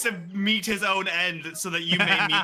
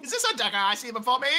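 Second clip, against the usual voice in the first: hammy stage actor; 4 semitones higher, faster than usual. Retold or imitated. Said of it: "thespian voice".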